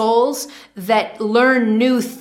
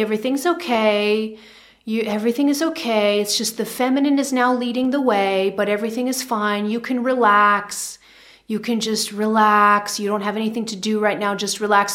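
soothing mantra. Retold or imitated. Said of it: "loving, soothing mantras".

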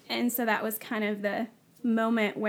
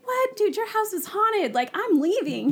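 higher and louder panicked outburst; retold panic; 10 semitones higher, 5 dB louder than usual. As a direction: freak out, wanting to leave now. Panics at haunted house.

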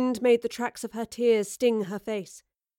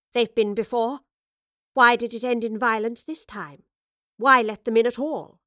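pressing harder with each question, louder; demanding answers, voice climbing; rising demand; 5 dB louder than usual. Acted. Professor confronting Evie over Bill's death, insistent and rising.

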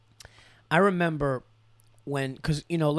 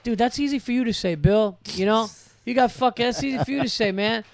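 retold protest; 6 semitones higher than usual. Pushing back at Burr.

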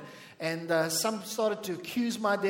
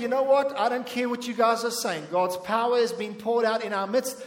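retold defiance; 3 semitones higher, 4 dB louder than usual. Voicing father defying his critics.

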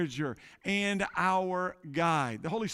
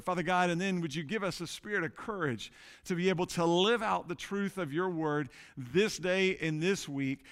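prayer. Real, not acted. Opening prayer before sermon.

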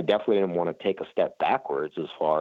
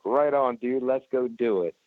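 fired up; 6 semitones higher than usual. Retold or imitated. His own fired-up reply.

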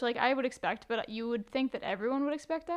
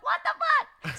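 mock outraged disbelief; 6 dB louder, much slower than usual. Shocked reaction retold.

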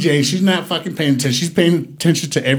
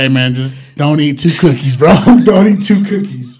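laughing stoned advice; 4 dB louder than usual. Retold or imitated. Repeat, laughing.

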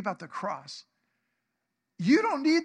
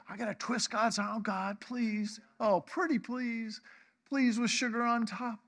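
mock begging; 3 semitones higher than usual. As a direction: wheedle like a child begging. Mock pleading with God.

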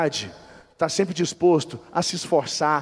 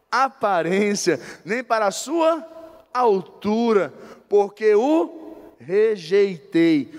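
slow scripture reading; slower than usual. Acted. Preacher reading the verse to the church, slow and solemn. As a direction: lean on each word like a preacher reading Scripture. Reads the Bible verse slowly.

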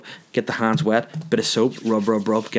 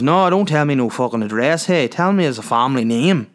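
country taxi driver; 4 semitones higher, 4 dB louder than usual. Retold or imitated. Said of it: "that's country folk".

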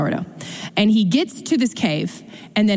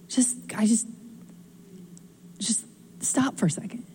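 whisper; 10 dB quieter than usual. Shown as a demonstration. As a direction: pause and whisper to the room. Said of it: "silence and a whisper".

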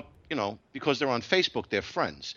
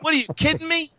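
higher and louder, half laughing; loud exasperated rant; 8 semitones higher, 8 dB louder than usual. Real, not acted. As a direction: rant with disbelief. Ranting at Facebook friends.

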